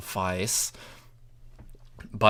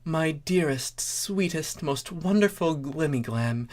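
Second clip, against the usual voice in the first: a touch higher, soft and adoring; doting princess voice; 5 semitones higher, 3 dB quieter than usual. Acted. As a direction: answer your sweetheart softly. Celestia answers Starlight lovingly.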